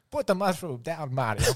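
Luigi pleading. Retold or imitated. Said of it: "I'll be Luigi".

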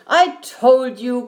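loud, emphatic I-told-you; crying out. A narrator's reading. Eddie proved right about the bear, crying out. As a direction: burst out, vindicated. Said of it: "cried Eddie".

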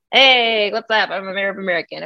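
put-on heavy foreign accent, upbeat; hammed-up awkward foreign accent; Fez-like accent. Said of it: "That's what I sounded like".

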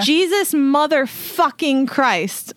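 a held-back re-enactment of yelling, drawn out on the curse; retold yell. Telling the co-host what was yelled in the neighborhood, mock yell. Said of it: "I yell at the top of my lungs".

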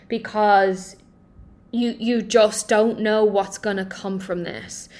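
urgent, pushing the words out with force; intense pleading. Real, not acted. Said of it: "not the happy-go-lucky speaker talking to you".

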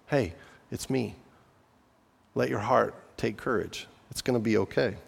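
calm a frightened friend; gentle reassurance. Acted. Jesus comforting scared disciples, softly reassuring.

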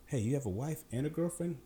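high, incredulous ask; can't believe he has both; surprised question. Retold or imitated. Asking the owner, amazed he has a wife and girlfriend.

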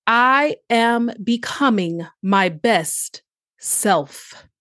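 slow, deliberate affirmation; each word set apart, slowly; staccato. Shown as a demonstration. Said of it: "So take time to repeat that".

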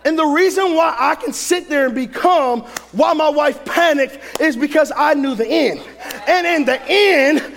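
forceful sermon delivery with punched key words; preaching. Real, not acted. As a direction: preach it hard to a congregation.

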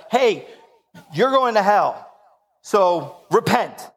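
lampoon a scolding preacher, dragging out repent; mock hellfire preacher. Pastor lampooning turn-or-burn preaching to his congregation, hammed-up.

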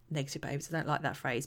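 fast breathy whisper after a sigh; sigh, then whisper the phrase quickly to yourself. Real, not acted. Speaker doubting her own wording, whispering it aside.

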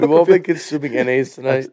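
thick Boston accent. Real, not acted. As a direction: let the Boston vowels slip out. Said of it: "the Boston accent coming out".

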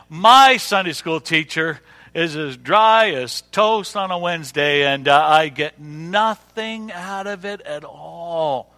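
slow, drawn-out grumble; stretched-out moan of dissatisfaction; mock complaint. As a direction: imitate a fed-up church member, dragging the words. Quoting a bored church member's complaint.

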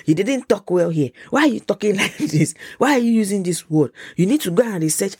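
nagging mother's list of complaints; critical mom. Acted. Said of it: "She will even give me criticism".

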